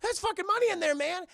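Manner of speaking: mock excitement. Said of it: "Jackie Chan's like".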